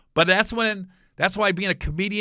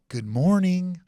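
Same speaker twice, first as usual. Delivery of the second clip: deadpan good morning; 3 semitones higher, slower than usual. Retold or imitated. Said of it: "I go".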